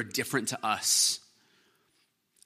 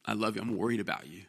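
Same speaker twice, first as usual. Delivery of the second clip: gentle caring; 8 dB quieter than usual. Retold or imitated. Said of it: "speak the truth in love to me".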